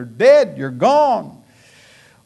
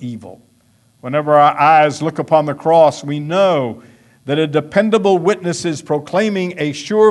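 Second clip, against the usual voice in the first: quoted sermon reading; 5 dB louder than usual. Retold or imitated. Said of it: "Someone said".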